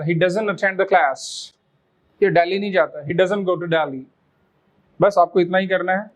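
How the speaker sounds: doesn't said dozen, very slow. Shown as a demonstration. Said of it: "इसका sound भी ऐसे ही करना है".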